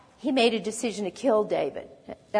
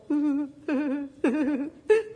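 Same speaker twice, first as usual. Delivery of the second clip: higher, wordless mock fearful noise; mock whimper; 4 semitones higher than usual. Soldiers going out against Goliath, mock whimpering. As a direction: fake a frightened whimper.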